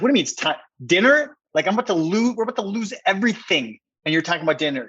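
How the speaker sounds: retelling how he nearly exploded over dinner; exasperated outburst. Retold or imitated. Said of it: "I'm about to explode".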